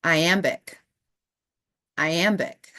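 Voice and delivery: inner voice. Retold or imitated. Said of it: "And I heard again".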